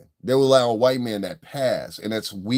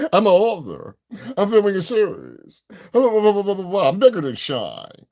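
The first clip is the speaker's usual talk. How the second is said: mocking her; 8 semitones higher than usual. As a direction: parody her self-praise in a high voice. Mocks woman's boasting.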